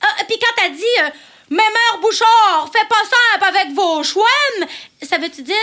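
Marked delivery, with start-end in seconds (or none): 1.5-4.7 put-on slow, broad Charlevoix accent; imitated Charlevoix accent. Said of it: "j'ai de la misère avec l'accent". (accent de Charlevoix imité, lentement)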